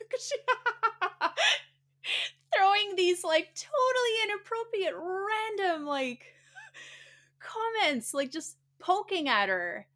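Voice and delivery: can't stop laughing while telling it; laughing through words. Real, not acted. Laughing while retelling the joke.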